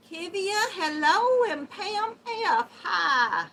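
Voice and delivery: high, loud greeting; high-voiced yelling. Real, not acted. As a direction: call out hello loudly in a high voice. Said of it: "I'm yelling at y'all".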